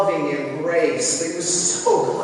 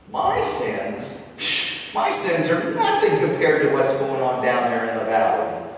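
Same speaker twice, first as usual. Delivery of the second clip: dismissive; 3 dB louder than usual. Acted. Judging brother dismisses his sins.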